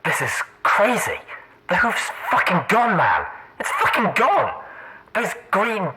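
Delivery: panicked, rising swearing voice; frantic buck in disbelief; tense, thick voice. Acted. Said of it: "in a tense, thick voice".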